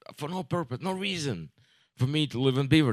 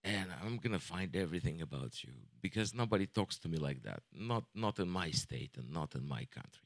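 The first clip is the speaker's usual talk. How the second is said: much lower and softer, a quiet mock menace; a lowered, mock-ominous warning voice; menacing customer; 9 semitones lower, 13 dB quieter than usual. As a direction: imitate the pompous guy threatening low. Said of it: "He's like".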